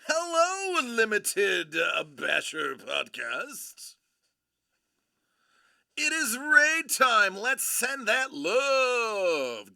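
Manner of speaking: high, loud, drawn-out hollering; hyped-up streamer greeting; raid hype shout. Real, not acted. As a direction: belt out a big welcome to the arriving crowd. Streamer hypes up an incoming raid.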